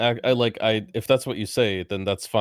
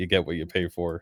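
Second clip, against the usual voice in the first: mumbled quietly under the breath; 4 semitones lower, 3 dB quieter than usual. Voicing a character grumbling about a price: mumbling to herself. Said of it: "mumbling to herself something about".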